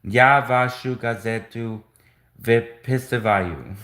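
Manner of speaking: Я вашу газету read slowly, выписываю ending on a rise; unsure learner reading from a book; careful Russian. Shown as a demonstration. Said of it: "I don't think I'm saying it right".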